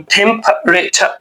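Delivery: টেম্পারেচার slowly, aspirated "th", "cha" ending; slow native pronunciation. Shown as a demonstration. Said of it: "ওরা এভাবে উচ্চারণ". (ধীরে native উচ্চারণে টেম্পারেচার)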